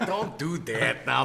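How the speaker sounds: low, slow, hushed don't do that now; low mock warning. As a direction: drop the voice and drag it out as a fake warning. Scolding a co-host, then repeating it.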